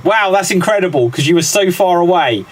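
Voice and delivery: high-pitched, thrilled announcement; amazed and delighted, pitch up; excited congratulation. Real, not acted. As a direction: celebrate a last-second win. Host announces a last-second correct guess.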